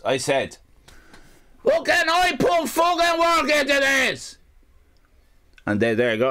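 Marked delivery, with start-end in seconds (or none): 1.7-4.4 high, drawn-out indignant wail; slow, high-pitched mock fury; outraged rant. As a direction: protest it in a hammed-up tantrum. Retold tantrum over card set.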